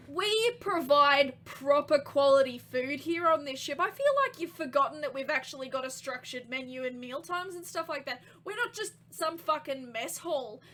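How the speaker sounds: loud indignant chef at the start, easing slightly. Acted. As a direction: argue hotly for your kitchen. Yelling chef argues with captain.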